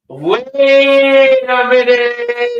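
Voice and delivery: high, slow wait a minute; drawn-out realization. Real, not acted. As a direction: stretch it out in sudden realization. Sudden idea during mic fix.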